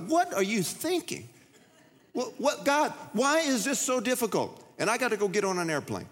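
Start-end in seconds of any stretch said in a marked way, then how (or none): 0.1-4.6 put-on high, childish frustrated wail at God; frustrated prayer. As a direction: complain to God like a three-year-old. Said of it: "I was like".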